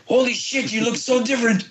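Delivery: very high amazed co-star impression; Tamora. Co-star sees the actor's real look, high amazed voice. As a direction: exclaim it high, imitating an astonished co-star. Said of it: "he was hilarious".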